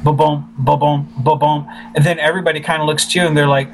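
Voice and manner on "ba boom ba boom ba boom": spoken heartbeat thump in paired beats; imitated heartbeat. Filmmaker describing blood pounding in his ears, imitated heartbeat. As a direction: mimic a pulse pounding in the ears. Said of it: "hearing the blood in your ears".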